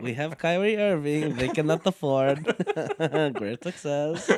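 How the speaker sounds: put-on Borat accent. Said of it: "He sounds more like Borat".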